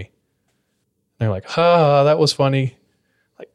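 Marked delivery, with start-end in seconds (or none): 1.5-2.8 forced, higher mock laugh; fake laugh. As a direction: laugh it off, not amused.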